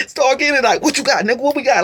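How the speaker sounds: mock tough guys. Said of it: "Them niggas act tough".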